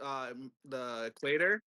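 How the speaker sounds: stumbling over the words; stutter. Real, not acted. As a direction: trip and restart mid-word. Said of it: "Nice stutter".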